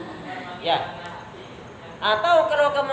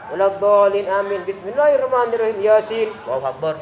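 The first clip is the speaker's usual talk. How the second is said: rushed imam demo; 3 semitones lower than usual. Shown as a demonstration. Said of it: "Misalnya, imamnya begitu".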